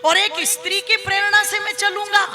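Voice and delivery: acted affronted husband; scornful retort. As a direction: scoff at being advised. Bali scoffs at wife's advice.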